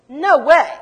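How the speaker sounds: acted-out astonished exclamation; shocked disbelief. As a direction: blurt it out in stunned disbelief. Acting out the women's shocked reply.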